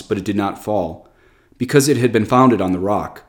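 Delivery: solemn liturgical reading; scripture reading. Acted. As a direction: proclaim the Gospel, measured and steady. Reads Gospel aloud at the start.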